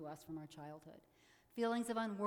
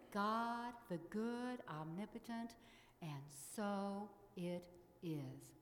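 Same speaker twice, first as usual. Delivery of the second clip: prayer affirmation. Acted. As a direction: intone it reverently, fading at the end.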